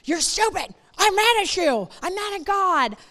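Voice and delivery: high, whiny mock rant; mock teen tantrum. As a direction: play a sulky teen lashing out. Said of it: "And then you're like".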